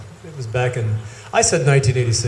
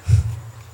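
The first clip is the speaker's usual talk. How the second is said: short laugh. Real, not acted. Laughs after her flirtatious answer.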